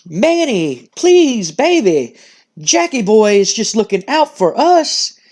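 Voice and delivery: lightly voiced laid-back charmer; upbeat, happy-go-lucky. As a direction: cheerfully talk a worrier round. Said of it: "happy-go-lucky, you know, kinda upbeat".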